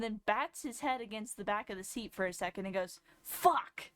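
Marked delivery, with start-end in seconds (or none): 3.2-3.9 a sharp yelled curse, higher and louder; the boyfriend venting alone in his truck: yelled curse; frustrated swear. Retold or imitated.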